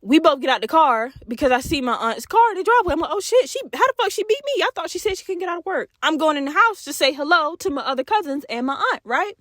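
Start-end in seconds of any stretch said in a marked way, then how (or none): 3.1-5.9 high, quick mock surprise; surprised. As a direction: caught off guard, words rushing. Surprised aunt is home.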